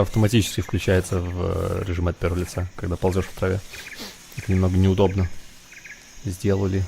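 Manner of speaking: quiet commentary. Real, not acted. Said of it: "Включаю тактический режим".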